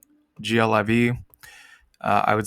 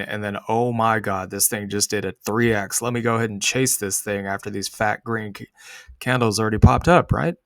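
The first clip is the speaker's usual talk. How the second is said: sarcastic. Pretend. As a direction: play a greedy retail trader, dripping sarcasm. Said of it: "I'm using sarcasm".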